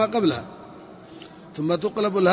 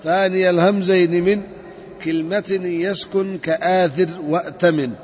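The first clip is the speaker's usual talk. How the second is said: verse recitation. Shown as a demonstration. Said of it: "قال ابن مالك".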